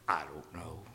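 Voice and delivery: sheepish whispered reply. Retold or imitated. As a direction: breathe it out like a caught schoolboy. Whispered reply in retold exchange.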